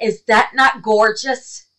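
gasp, then slow, loud marvelling; delighted gasp. Real, not acted. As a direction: catch your breath in wonder. Gasps at gift.

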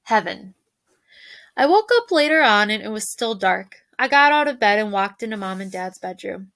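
reading a novel aloud to a class, gentle and measured; story reading. A narrator's reading. Teacher reading the book to the class, gentle storytelling. Reads Wonder chapter aloud.

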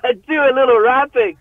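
hammed-up dweeb voice; mock nervous geek. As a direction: play up the awkward geek. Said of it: "like a fucking geek, dude, all nervous".

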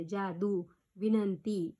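long final vowels in जादू and विनंती; दीर्घ उच्चार. Shown as a demonstration. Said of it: "म्हणून दीर्घच द्यायचं". ("जादू, विनंती" चा शेवटचा स्वर लांबवून)

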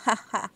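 a short sly royal laugh; understated scheming ha-ha; scheming chuckle. Acted. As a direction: chuckle as the idea hits. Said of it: "he began laughing".

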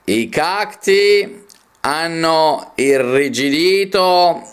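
slow, measured poetry reading; poem recitation. Acted. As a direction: declaim each phrase, lingering on the stressed vowels. Reads a poem aloud.

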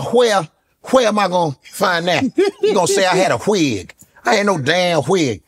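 lightly voiced Steve Harvey rant; mock-indignant Steve Harvey; a hint of Steve Harvey fussing over the wig; Steve Harvey impression.

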